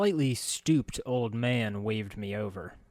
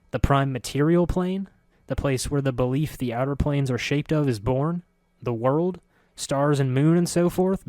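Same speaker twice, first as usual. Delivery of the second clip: incredulous; 4 semitones higher, 5 dB louder than usual. Acted. Incredulous at narrator's ignorance.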